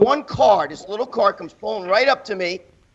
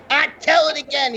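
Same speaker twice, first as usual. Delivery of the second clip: eager fan's higher-pitched demand; Ronnie Coleman; 5 semitones higher than usual. Retold or imitated. Friend asking to hear the story, imitated higher. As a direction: lift the pitch, imitating an enthusiastic listener. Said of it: "and he'll tell you".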